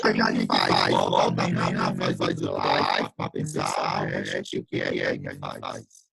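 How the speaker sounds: slow deep garbled robot sound. Real, not acted. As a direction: voice crawling through bad internet. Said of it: "Não consegui entender nada".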